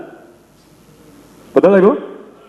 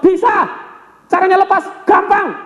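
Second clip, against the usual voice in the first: much higher, hammed-up stubborn voice; Bruce Lee insisting; 13 semitones higher than usual. Bruce Lee stubbornly insisting, high comic voice. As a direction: push the point playfully, high. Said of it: "Bruce Lee masih ngotot".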